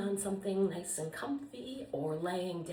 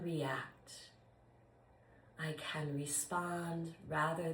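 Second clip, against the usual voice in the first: guided meditation. Real, not acted. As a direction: lead a body scan calmly, with long pauses. Leads a yoga nidra.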